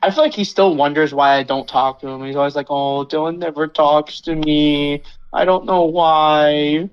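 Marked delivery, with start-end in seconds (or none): 2.7-6.9 slow drawn-out mock whine; whiny mock imitation. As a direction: imitate a pouting friend. Imitating Marcus whining.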